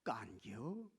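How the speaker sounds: low, soft Chungcheong 깐겨?; Chungcheong dialect. Acted. Preacher shows how easy local speech is, Chungcheong dialect. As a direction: drop 깐겨? as an effortless Chungcheong question. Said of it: "우리 충청도는 너무 쉬워".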